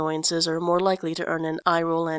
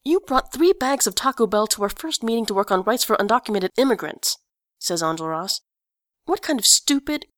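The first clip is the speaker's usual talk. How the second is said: louder, rising furious accusation; angry accusation; 2 semitones higher, 3 dB louder than usual. Acted. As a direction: hammer the charge at him. Enjolras accuses Grantaire angrily.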